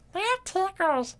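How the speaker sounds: very high, squeaky toy voice; drawn-out falsetto, like a giggly puppet; Tickle Me Elmo. Retold or imitated. Imitating the talking toy after naming it, squeaky falsetto. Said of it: "Tickle Me Elmo".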